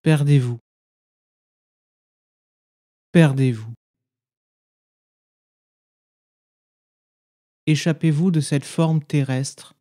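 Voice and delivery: measured poem recitation with long silences between phrases; meditative poem reading. Acted. Guide reads listeners a Sufi poem as practice, meditative recitation. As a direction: recite each line as an instruction, then leave silence.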